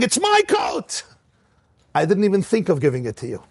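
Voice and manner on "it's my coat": high, slow, stretched mock shout; the rabbi's inner mock shout; mock scream. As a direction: yell it like a stubborn child. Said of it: "I was screaming".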